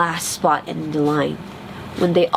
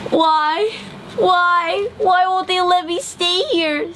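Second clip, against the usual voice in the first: high, hurt pleading; ugly duckling wondering why he is rejected; 10 semitones higher, slower than usual. A narrator's reading. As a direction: ask it to yourself, wounded. Rejected duckling asks himself.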